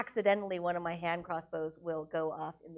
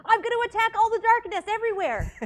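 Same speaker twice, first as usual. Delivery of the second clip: high, loud pirate character voice; 13 semitones higher, 9 dB louder than usual. Acted. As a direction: shout it as a squeaky-high pirate. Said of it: "I'm no longer talking like a pirate".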